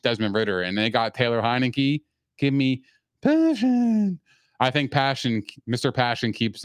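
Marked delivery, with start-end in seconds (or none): 2.4-4.2 high, slow, drawn-out hype; hyped-up call. Acted. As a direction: sell it like a hype man. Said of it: "hyped call".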